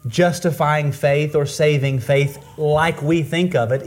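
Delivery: usual speaking voice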